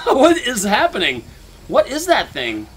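loud, drawn-out panicked question; loud frightened cry. Real, not acted. Player facing the creature, loud frightened cry. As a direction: shout it in horror at the creature. Monster appears again.

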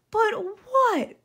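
loud, high impatient growl. A narrator's reading. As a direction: snap it at him, annoyed. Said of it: "growled the fox".

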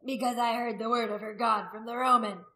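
loud defiant answer; shouting back. A narrator's reading. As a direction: throw the answer back at the accusers. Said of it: "Haragast shouted back".

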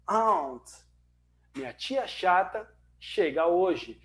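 mnemonic said slowly, word by word; slow memory phrase. Shown as a demonstration. Teaching students a mnemonic, slow and deliberate. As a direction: spell out the memory trick slowly. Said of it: "eu gosto de dar esse exemplo".

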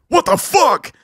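high, loud, baffled yell; mock shocked outburst. Playing Goggins startled at his door, mock shocked. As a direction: blurt it out in disbelief. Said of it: "And he's like".

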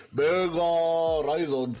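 sudden gamer hype; excited burst. Real, not acted. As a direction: pump yourself up, loud. Hyped for the next catch.

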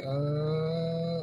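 long, level hum; imitated ship hum. Sailor imitating the ship coming in fast, a sustained hum.

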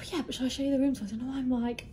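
breathless from the heat; puffing between words; out of breath. Real, not acted. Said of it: "out of breath".

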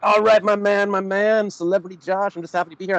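high-pitched, hyped-up guest impression; put-on excited greeting, loud at the start; imitating guest's greeting. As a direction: mimic an eager guest's big hello, pitched well up. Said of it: "And you're like".

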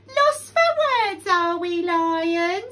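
loud, high mocking taunt; sneering. A narrator's reading. Crocodile mocking speechless Lion, loud sneer. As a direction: sneer at him, drawn out and loud. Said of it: "sneered Crocodile".

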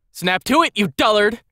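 put-on high, imperious young lady's shout; brusque shout. A narrator's reading. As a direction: shout a brusque order at a servant. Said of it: "the young lady brusquely shouted".

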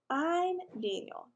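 put-on high, drawn-out little-boy introduction; little kid. A narrator's reading. Six-year-old introduces himself to older girls, little kid voice. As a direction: pipe up slowly as a small child.

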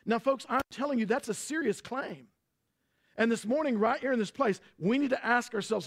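full-force sermon peak; preaching climax. Acted. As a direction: drive the point home to the church.

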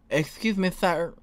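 polite, slightly girlish put-on voice; feminine voice. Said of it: "should I do a little feminine voice for him".

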